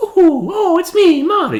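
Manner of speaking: very high, loud, swooping voice. Showing how the game voice sounds: bad Mario impression. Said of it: "I can't do a good Mario".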